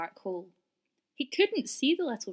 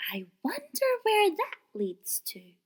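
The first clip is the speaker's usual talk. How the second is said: whispered wondering; curious whisper; 8 semitones higher than usual. A narrator's reading. Little rabbit whispering alone in the dark well. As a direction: breathe it in wonder. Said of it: "she said".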